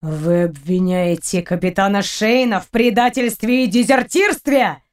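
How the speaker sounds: admiral raising voice, slow. Acted. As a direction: raise your voice in disbelief. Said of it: "впервые повышая голос".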